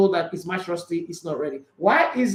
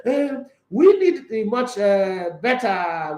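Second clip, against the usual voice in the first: put-on slow, hesitant German-accented coach; lightly put-on German accent; bad German accent; much slower than usual. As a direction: attempt a German accent, haltingly. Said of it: "my German impression is very, very bad".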